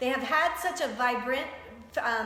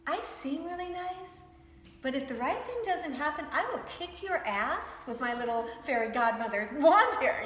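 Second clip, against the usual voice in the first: 1 sweet but powerful; 3 semitones higher than usual. Retold or imitated. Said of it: "there is this underlining power about her".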